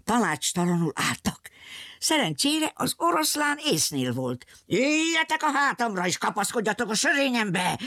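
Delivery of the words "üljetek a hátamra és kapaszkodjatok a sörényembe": raised, urgent call at higher pitch. A narrator's reading. Lion urges friends onto his back, raised urgent cry. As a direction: cry out the order to the others. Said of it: "kiáltotta".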